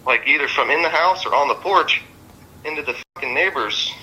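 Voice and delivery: real agitation, pitch jumping high in places; worked up. Real, not acted. Friend telling police about her throwing hooks, worked up. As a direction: recount it all worked up, cursing freely. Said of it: "I just all worked up".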